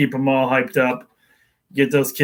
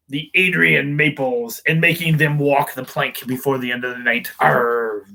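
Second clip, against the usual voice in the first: a hint of a swaggering pirate. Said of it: "so we use the pirate voice".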